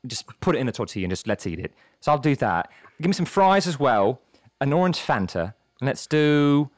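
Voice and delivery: polite, hesitant British customer; British accent. Acted. Customer ordering at a taco truck, polite British accent. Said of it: "I love your British accent".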